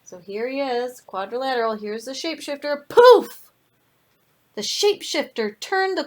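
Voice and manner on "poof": sudden loud, high exclamation; big storybook spell pop; magic poof. Acted. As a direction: burst out with the magic word.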